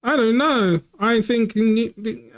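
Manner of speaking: high anime hero voice, slowed; a light overacted anime dub. Real, not acted. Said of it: "you just had your dub voice".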